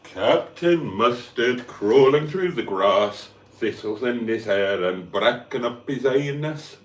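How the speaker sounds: slow nature documentary voice; documentary narrator. Pretend. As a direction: narrate like a wildlife film.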